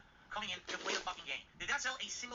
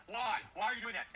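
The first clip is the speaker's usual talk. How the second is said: louder, whining mock protest; mock whiny chatter; 4 semitones higher, 4 dB louder, slower than usual. Imitating chatters freaking out, whiny mock voice. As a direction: mimic the chatters crying foul. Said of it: "all of them freak out".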